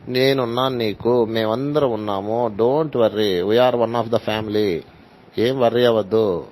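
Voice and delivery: slow, gentle comforting words; slow reassurance. Shown as a demonstration. Teacher showing how to console the bereaved, slow and gentle. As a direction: soothe a grieving person, slowly.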